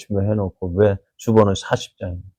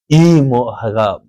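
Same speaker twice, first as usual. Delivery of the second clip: mock angry huff; 4 dB louder, much slower than usual. Hannah imagined huffing at God's test, mock anger. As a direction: scoff as if turning away in a temper. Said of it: "하고 화내고 돌아섰다면".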